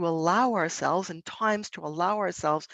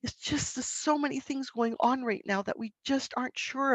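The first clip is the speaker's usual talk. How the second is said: soft and quiet, sinking into sadness; tender, hushed empathy; gently sad; 5 semitones higher, 4 dB quieter than usual. Shown as a demonstration. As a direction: lead the child down into sorrow softly. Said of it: "gently move towards sadness".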